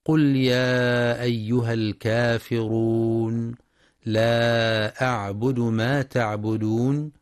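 slow, measured tajweed recitation; Quran recitation. Shown as a demonstration. Teacher reciting Surat al-Kafirun, slow chant. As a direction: chant the verses slowly and evenly.

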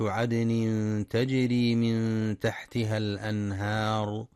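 slow, sung tajweed chant; Quran recitation. Acted. Teacher reciting the reward verse to students. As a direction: chant the verse with long held vowels.

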